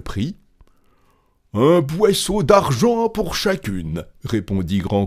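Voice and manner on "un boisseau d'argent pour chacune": high, projected sales cry; called-out price. A narrator's reading. Grand Claus answering the shoemakers, loud high hawker's answer. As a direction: announce the price to the whole street.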